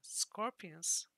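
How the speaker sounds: Owen working it out mid-mumble, now alarmed; alarmed realization. A narrator's reading. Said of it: "Owen was mumbling to himself".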